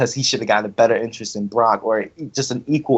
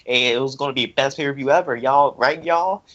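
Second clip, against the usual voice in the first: mocking; 2 semitones higher than usual. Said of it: "mocking, I was like".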